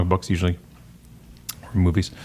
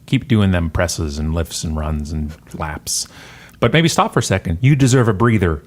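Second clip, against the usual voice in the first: announcer voice. Acted. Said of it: "That's my announcer voice".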